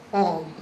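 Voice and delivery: frog broken into fr and og; onset-rime split. Shown as a demonstration. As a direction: say frog as two parts, fr, then og. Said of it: "if the word is one syllable".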